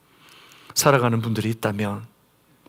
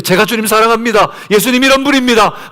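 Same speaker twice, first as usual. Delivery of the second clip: higher and louder, bold and sure; confident declaration; 10 semitones higher, 7 dB louder than usual. Retold or imitated. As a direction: proclaim it with full confidence. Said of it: "라고 자신 있게 대답했는데". (높고 크게 자신 있게 외치는 고백)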